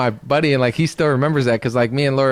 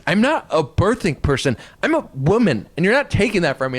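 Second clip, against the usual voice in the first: defiant mock quote; 5 semitones higher than usual. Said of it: "She's like".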